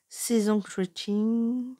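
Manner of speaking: slow whispered English title in a French accent; hesitant French-accented English whisper. Real, not acted. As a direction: breathe out the English words slowly, French accent. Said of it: "excusez-moi pour mon accent anglais".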